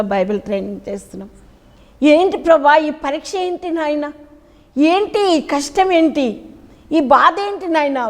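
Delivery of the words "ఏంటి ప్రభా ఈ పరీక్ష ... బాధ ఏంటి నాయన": slow, pleading lament to God, only lightly tearful; mild mock weeping plea; retold tearful prayer. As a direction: plead slowly as if crying out to God. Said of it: "అని నేను చాలా ఏడ్చిన".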